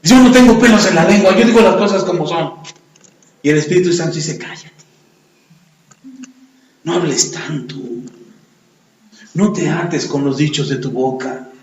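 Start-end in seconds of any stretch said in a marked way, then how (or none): 0.0-2.5 blunt boast. Acted. Proud person answering the Spirit. 4.4-11.5 hushed rebuke. Acted. Holy Spirit gently rebukes.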